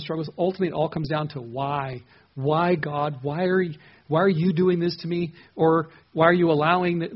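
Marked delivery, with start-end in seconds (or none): 2.3-7.1 acted plea to God, growing louder; imitated anguished questioning. Preacher voicing struggling people asking God why, insistent pleading. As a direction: press the question, as if demanding a reason.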